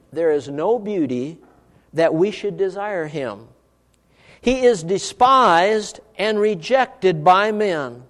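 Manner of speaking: very slow, solemn reading with weighty pauses; slow scripture reading. Real, not acted. Preacher reading Isaiah so listeners think about it, slow reading. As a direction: read each phrase slowly, leaning on the key words. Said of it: "I'm gonna read it slowly".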